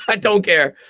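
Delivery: laughing through the words. Real, not acted. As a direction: shrug it off with a laugh.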